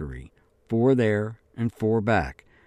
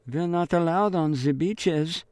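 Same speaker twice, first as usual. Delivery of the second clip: put-on higher, timid girl's voice; lightly voiced frightened girl; nervous girl; 8 semitones higher than usual. A narrator's reading. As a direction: answer small and frightened. Girl answers soldier nervously.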